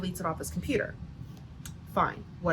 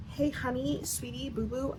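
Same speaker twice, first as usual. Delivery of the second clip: mock sweet-talk; 3 semitones higher, 8 dB quieter than usual. Doctor softens Luke up before confessing another copy, mock sweet-talk. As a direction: imitate a girlfriend buttering him up.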